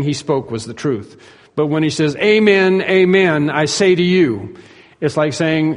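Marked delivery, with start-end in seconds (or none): 2.2-4.6 "Amen, amen" raised in pitch, then "I say to you" slowly; emphatic pronouncement. Shown as a demonstration. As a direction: stress each "Amen" as a solemn announcement. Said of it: "It's in a way of emphasizing".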